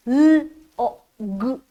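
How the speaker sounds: L O G sounded out slowly, letter by letter; sounding out letters. Shown as a demonstration. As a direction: stretch each sound in L O G for the child. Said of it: "this is a log of wood".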